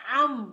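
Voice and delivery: loud, throaty am; baby-feeding am. Shown as a demonstration. Teacher linking the feeding sound to Ain, loud am. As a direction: am said like coaxing a baby. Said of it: "So this is the sound also".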